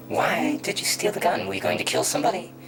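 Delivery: acted cop raising his voice sharply; escalated interrogation. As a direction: fire the accusation at the suspect. Acted interrogation, question repeated harder.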